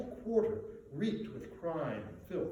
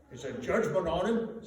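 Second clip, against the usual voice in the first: high, loud brazen cockney woman; flaunting charwoman; 4 semitones higher, 7 dB louder than usual. A narrator's reading. Charwoman to the thieves, high brazen flaunting voice. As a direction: flaunt it, shameless and defiant. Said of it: "said the charwoman".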